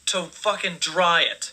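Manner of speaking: normal talking voice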